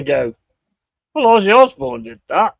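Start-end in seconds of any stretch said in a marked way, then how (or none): 1.1-2.5 high, louder mock teenager; a kid answering a parent's warning about drugs, mocking; cheeky kid. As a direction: throw it back at the parent, smug. Kid voiced talking back.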